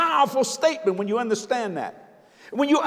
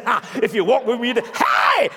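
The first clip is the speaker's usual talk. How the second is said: mock shout. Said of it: "And the Lord said".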